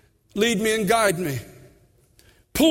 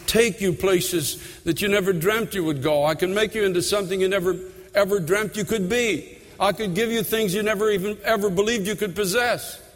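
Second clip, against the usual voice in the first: loving voice of the Lord. Retold or imitated. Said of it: "the Lord so lovingly saying".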